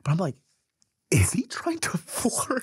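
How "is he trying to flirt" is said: high, slow whisper with a laugh; hushed disbelief, half laughing; whispered aside. Retold or imitated. Private aside at the table.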